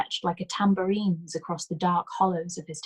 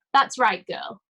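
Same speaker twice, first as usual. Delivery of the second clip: approving; 3 semitones higher, 6 dB louder, slower than usual. A narrator's reading. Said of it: "said Armand approvingly".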